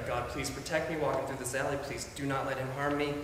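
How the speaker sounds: soft, pleading prayer under the breath; a softly retold frightened prayer; hushed prayer. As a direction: pray quietly for protection. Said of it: "she starts praying".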